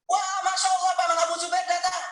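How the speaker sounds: mock children's joyful welcome; excited children. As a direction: greet him like delighted kids. Children cheering his arrival.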